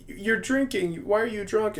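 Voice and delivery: high-pitched imitated wife; mock a wife confronting her drunk husband; upset wife. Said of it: "then the wife is like".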